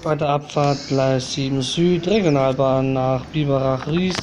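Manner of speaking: station announcer reading train times; calm, even railway tannoy read; flat platform announcement. Acted.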